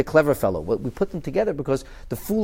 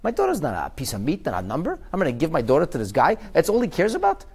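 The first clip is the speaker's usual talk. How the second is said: indignant parent; 5 semitones higher than usual. Retold or imitated. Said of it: "So people said".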